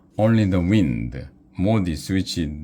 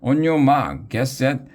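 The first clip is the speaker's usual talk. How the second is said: rising panic; 7 semitones higher than usual. A narrator's reading. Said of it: "and screamed again".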